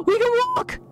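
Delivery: gasp, then high delighted burst; thrilled it finally works; excited gasp. Real, not acted. Gamer finding she can walk, delighted. Gasp at discovering walking in game.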